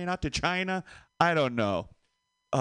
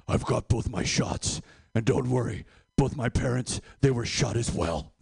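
Batman; 3 semitones lower than usual. Acted. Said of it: "I went dressed as Batman".

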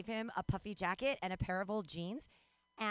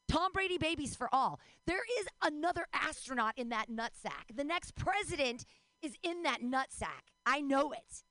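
higher, impassioned proclamation; hammed-up crusading conviction; mock rallying cry; 5 semitones higher than usual. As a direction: preach the absurd cause to the crowd. Mock crusade for Brady babies.

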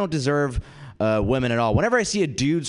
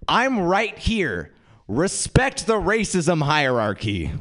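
indignant retort; 5 semitones higher, slower than usual. Retold or imitated. Indignant retort to street yeller.

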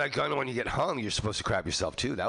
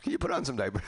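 mock polite guard; 6 semitones higher, faster than usual. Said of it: "they're like".

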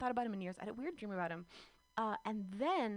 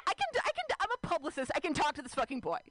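self pep talk; 4 semitones higher, faster than usual. Retold or imitated. Psyching herself up to talk to her old crush, high excited pep talk. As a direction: pump yourself up, squeaky with adrenaline.

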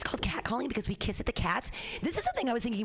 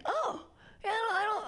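gushing high voice; 12 semitones higher than usual. Retold or imitated. Mock gushing passerby.

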